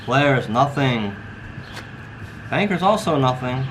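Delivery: slow, drawn-out dealer call; casino croupier. Acted. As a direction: announce the hand like a baccarat dealer. Dealer calls the baccarat hand.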